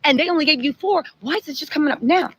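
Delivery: retold judge's testy cross-questioning; imitated snapping. Judge snaps on the prosecutor over late exhibits, mock exasperation. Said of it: "he snaps on her".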